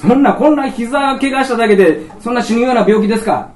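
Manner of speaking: patient protesting loudly to the doctor with a laugh; incredulous laughing protest. Retold or imitated. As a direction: laugh it out in disbelief.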